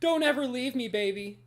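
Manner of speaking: cling to the game like a partner who might leave; pleading lover. Retold or imitated. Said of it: "It's just like".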